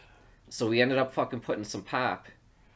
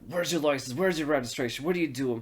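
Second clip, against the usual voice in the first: raised-pitch rapid-fire demands as the cop; mock bullying cop; 3 semitones higher than usual. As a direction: imitate an officious asshole cop. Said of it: "just a complete fucking asshole".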